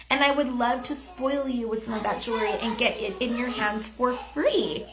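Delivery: bright, upbeat, personal tone; friendly voice message. Shown as a demonstration. Coach demoing a friendly voice message to Andrea. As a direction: sound glad to reach out. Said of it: "So you can say something like this".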